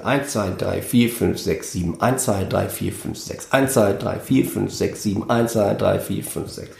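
each bar restarts firmly on "eins", tailing off at its end; alternating bar counts. Shown as a demonstration. Musician demonstrates a band's changing meters, running rhythmic count. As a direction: count "eins" to "sieben", then "eins" to "sechs", without a gap. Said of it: "immer im Wechsel".

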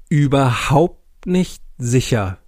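slow, grave theatrical delivery; hammy stage actor. Acted. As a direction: declaim it with mock gravity. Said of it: "voller theatralischer Gravitas".

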